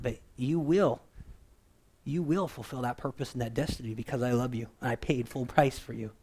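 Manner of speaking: lightly voiced God, soft and unhurried; calm, loving God. God answering his frantic people: a touch of loving calm. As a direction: reassure a panicking child, quickly and gently. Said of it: "the voice of God is so clear and loving".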